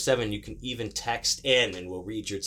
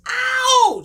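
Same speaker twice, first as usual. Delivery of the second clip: yelling, climbing to a very high whoop; exuberant shout-out; 10 dB louder, slower than usual. Real, not acted. Host shouting out his brother Tony Evans, exuberant rising yell. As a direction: holler it like a hype man, building to a howl.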